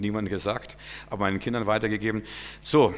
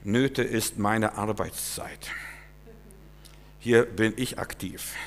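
slow, solemn quoting of God; lightly voiced divine answer, unhurried; measured, weighty words of God; voice of the Lord; 2 semitones lower, 3 dB quieter, slower than usual. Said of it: "dann sagte der Herr zu mir".

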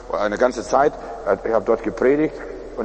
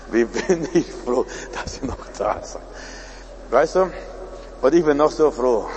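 relieved desperate caller. Retold or imitated. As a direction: trail away almost voicelessly. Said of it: "ganz verzweifelt".

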